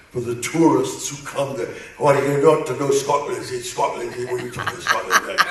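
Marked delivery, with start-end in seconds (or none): 2.0-5.4 mock Scottish rant, fast; imitating Destro. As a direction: imiteer Destro, snel. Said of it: "Destro would talk like that".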